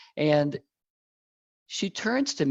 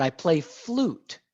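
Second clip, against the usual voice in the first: smiling; 3 semitones higher, much slower than usual. Retold or imitated. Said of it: "She smiled and she said".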